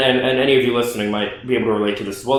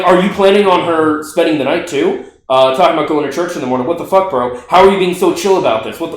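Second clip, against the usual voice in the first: freaking out text; 2 semitones higher than usual. Retold or imitated. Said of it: "I'm totally freaking out".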